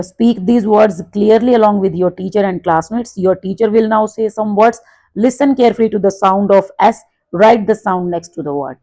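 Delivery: reading the instruction out slowly and clearly; teacher reads the book line aloud to the class, slow and careful; slow textbook read. Acted. Class ko instruction dheere dheere padhkar sunati teacher, saaf aur dheemi.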